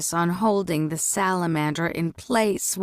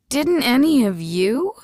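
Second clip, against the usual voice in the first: higher, louder disbelieving question; can't believe nobody saw it; shocked, rising question; 6 semitones higher, 5 dB louder than usual. A narrator's reading. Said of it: "Nari asked in shock".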